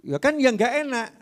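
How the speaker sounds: lightly whined protest; whiny objection. Retold or imitated.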